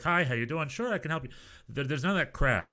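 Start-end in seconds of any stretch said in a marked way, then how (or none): 0.0-1.3 higher-pitched service greeting; lightly put-on chirpy helper; mock American friendliness. Driver greeting a passenger, mock chirpy friendliness. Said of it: "It's not like".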